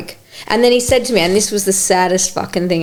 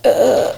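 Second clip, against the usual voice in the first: imitated groan; 2 semitones higher than usual. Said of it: "looking at me like".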